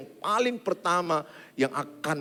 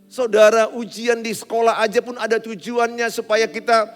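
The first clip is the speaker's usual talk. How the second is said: loud, driving sermon voice; fiery preaching; 7 semitones higher, 5 dB louder than usual. Acted. Preacher urging the congregation to come to God, loud and fervent. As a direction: preach it out to the whole church. Preaching builds to full force.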